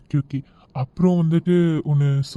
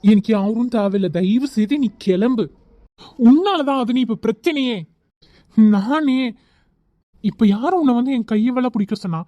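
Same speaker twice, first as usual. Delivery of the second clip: heated, slightly raised voice; worked-up, annoyed protest; angry; 4 semitones higher than usual. Acted. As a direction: push them away in irritation. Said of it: "கோவப்படாதீங்க".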